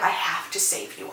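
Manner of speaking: a whispered, urgent line for Anthony; whispered urgency. Retold or imitated. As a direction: breathe it like a desperate secret. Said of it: "And he's like".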